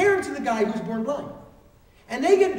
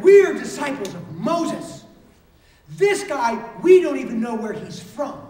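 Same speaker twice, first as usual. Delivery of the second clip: indignant retort; 6 dB louder, slower than usual. Acted. Angry leaders rebuke the healed man.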